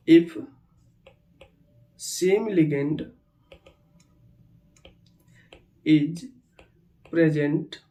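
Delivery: very slow, isolated words with long gaps; word-by-word dictation. Shown as a demonstration. Teacher dictating the fourth rule, slowly word by word. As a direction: leave time to write after each word.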